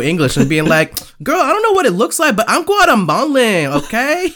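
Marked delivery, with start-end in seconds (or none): 1.2-4.3 very high, exaggerated Latina accent with attitude; hammed-up Brooklyn Latina accent, sky-high pitch; sassy mock Latina accent. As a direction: put some stank on a mimicked Latina accent. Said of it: "she had a little bit of stank on her".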